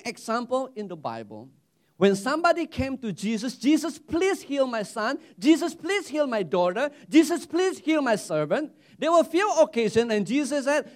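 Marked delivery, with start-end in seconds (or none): 3.5-8.7 higher-pitched repeated plea, rising each time; pleading. Acted. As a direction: beg on behalf of a loved one. Voicing people begging Jesus for healing.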